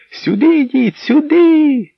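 very high, loud beckoning call; calling from afar. Acted. Bald old man calling everyone over, loud high call. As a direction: summon them across the yard. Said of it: "Звідти гукав низенький лисий чоловік".

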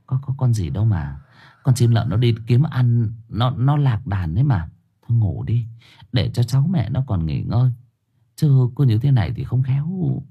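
mild motherly reassurance; soothing. Acted. Mother-in-law explains away the owl to frightened Yến, gently soothing. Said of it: "Bà Thu vỗ về".

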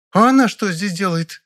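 high, outraged rival actress; indignant. A narrator's reading. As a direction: demand it, offended. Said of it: "Морецкая так возмутилась". (возмущённо)

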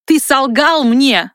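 Ты солгал мне slowed, ты stressed; slow accusation. A narrator's reading. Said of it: "снова повторил огненный маг". (медленно, с нажимом на «ты»)

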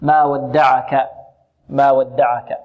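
slow ما ودعك with thin, unemphatic consonants and vowels; all letters light. Shown as a demonstration. Teacher showing the whole word is thinned, light articulation. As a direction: recite ما ودعك without any heaviness. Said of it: "الكلمة كلها مرققة".

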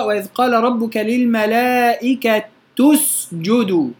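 recited slowly, للملائكة with the ta as tu; Abu Jaafar reading. Shown as a demonstration. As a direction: say للملائكة as lil-malaikatu. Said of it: "وهو يقرأ".

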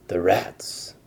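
hushed whisper. Acted. The giant realizing about the rats, whispered. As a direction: breathe it like a secret.

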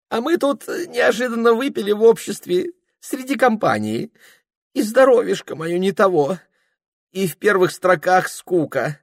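put-on high, fussy voice of a drunk clerk dodging; flustered young clerk. Ilya drunk complaint. (высокий суетливый голос смущённого приказчика)

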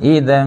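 อิดัน with the nasal ending held two beats; blended noon. Shown as a demonstration. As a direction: stretch the blended final N of อิดัน for two counts. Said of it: "การจะควบเสียงได้ เราต้องใช้เวลาสองอารอกานะครับ".

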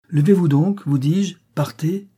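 loud, high, impatient command; harsh order. Acted. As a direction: chase the beggar off the step. Servant drives the beggar away.

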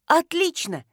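high, exclaimed reply; excited cry. A narrator's reading. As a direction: cry out cheerfully over the phone. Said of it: "закричала Воротникова". (восторженно воскликнуть)

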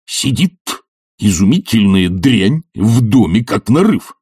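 high, emphatic grumbling tirade; indignant rant. Acted. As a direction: vent indignantly, hitting the insults. Professor's rant against Shvonder continues.

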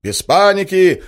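slow, high, loud panicked plea for calm; panicky shout. Acted. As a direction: beg for calm while panicking. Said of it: "паническим голосом".

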